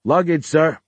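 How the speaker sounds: calling through a door; muffled call. A narrator's reading. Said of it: "a muffled voice that called".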